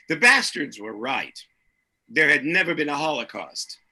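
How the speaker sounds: measured, deliberate reading with dramatic pauses; story narration. A narrator's reading. Author reading his novel's opening to the audience, deliberate narration. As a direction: read it out, leaning on the key names and numbers.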